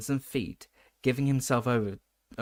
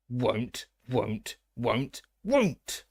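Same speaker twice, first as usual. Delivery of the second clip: stubborn elf; much slower than usual. A narrator's reading. The elf refusing Harry, the croak climbing to a cry. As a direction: keep chanting it like a stubborn elf.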